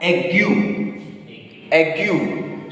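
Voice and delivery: "ague" as ay-GYU, in French; French pronunciation. Shown as a demonstration. Teacher moves on to the next word, French "Ague". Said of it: "Then we have".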